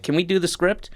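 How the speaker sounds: high-pitched quoted question; imitated asking. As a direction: lift the voice into a querying imitation. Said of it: "they were like".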